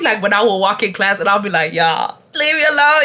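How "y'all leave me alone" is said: laughing. Real, not acted. Laughing at classmates teasing.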